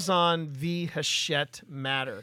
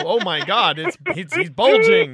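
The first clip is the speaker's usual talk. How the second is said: excited gasp; 2 semitones higher, 9 dB louder than usual. Retold or imitated. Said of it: "Jon Hamm on Mad Men".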